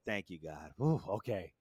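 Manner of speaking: soft, out of breath and relieved; out of breath relief. Retold or imitated. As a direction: gasp it out in relief. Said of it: "I'm just breathing hard".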